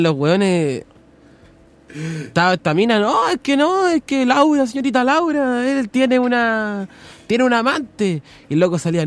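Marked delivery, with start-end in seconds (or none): 3.0-8.2 high-pitched mock woman pleading; imitating a woman. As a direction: squeak it like a distressed guest. Mujer citada en el programa de Laura. (voz de mujer imitada, aguda)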